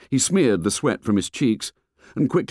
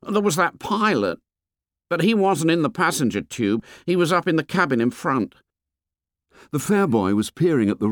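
put-on fat boy voice; 7 semitones higher than usual. A narrator's reading. Fat boy complains to the fair boy, high and whiny. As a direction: complain like a chubby schoolboy.

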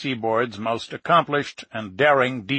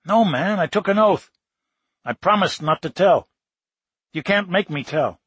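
higher, playful refusing to tell; teasing refusal; 5 semitones higher than usual. Acted. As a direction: tease him, won't give it up.

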